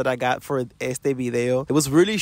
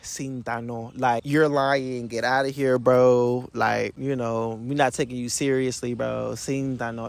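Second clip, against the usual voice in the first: sarcastic dismissal; 2 semitones lower than usual. Retold or imitated. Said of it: "Or it can be like".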